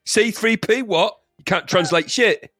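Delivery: slow, high, scornful cockney; angry East End Yoda. Acted. Yoda dismissing the android, angry East Ender. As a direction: sneer slowly like an East End geezer. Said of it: "angry sort of East End guy".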